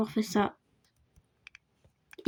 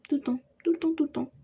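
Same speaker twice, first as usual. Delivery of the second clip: breathy whisper repeating it; 5 semitones higher, faster than usual. Acted. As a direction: whisper it to yourself.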